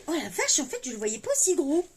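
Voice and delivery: genuinely surprised, pitch lifting; real surprise. Real, not acted. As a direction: blurt out astonishment at an unexpected find. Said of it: "Je suis très surprise".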